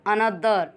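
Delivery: "another" said slowly with pressure on the stressed syllable; teacher's measured model of "another"; syllable stress demo. Shown as a demonstration. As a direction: lean deliberately into the stress of "another". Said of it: "ऐसे बोलेंगे".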